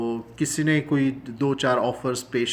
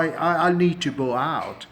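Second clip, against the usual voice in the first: slow, faltering apology; hesitant polite refusal; 3 semitones higher, much slower than usual. Shown as a demonstration. Guest at a party politely declining, slow and hesitant. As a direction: stammer into a polite exit. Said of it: "تو پانچ سات لوگ بیٹھے ہوئے ہیں".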